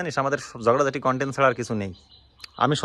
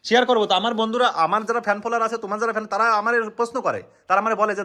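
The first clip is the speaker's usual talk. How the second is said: high, agitated self-justification; real exasperated protest; heated insistence; 5 semitones higher than usual. Real, not acted. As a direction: argue back forcefully. Insists on sharing with viewers.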